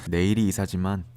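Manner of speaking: calm narrator voiceover; documentary narration. A narrator's reading. (다큐 내레이션)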